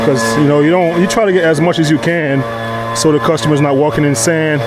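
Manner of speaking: yelling over leaf blower. Real, not acted. Sorry about the blower.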